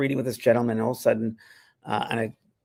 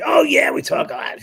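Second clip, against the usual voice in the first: impression; 5 dB louder than usual. Larry's voice, high and loud.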